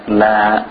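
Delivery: LA with a spread front vowel; thin LA. Shown as a demonstration. Teacher showing a light letter, thin la. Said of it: "we make them thin".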